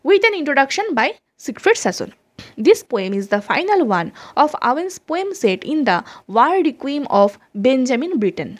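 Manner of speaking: reading notes aloud, slow and measured; slow dictation reading. Acted. Teacher dictating English notes to her students, slow and measured. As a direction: spell it out for students taking notes.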